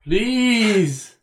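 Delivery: high, drawn-out ghost voice; ghostly voice. Pretend. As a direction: call out like a ghost. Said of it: "I'm hearing a ghostly voice".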